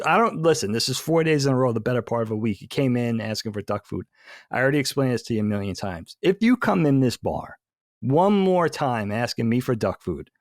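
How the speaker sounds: acted, mildly exasperated bartender rant; irate bartender. Bartender fed up with the duck's fourth visit, acted mild irritation. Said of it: "already irate".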